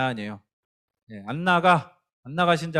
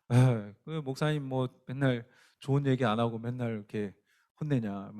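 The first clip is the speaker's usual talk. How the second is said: mock grumbling; 5 semitones lower, 6 dB quieter than usual. Voices listeners grumbling about the pastor.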